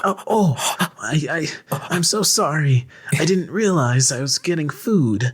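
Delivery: lightly high flustered stammer; a hint of a breathy anime girl; high cute anime girl. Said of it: "act like anime characters".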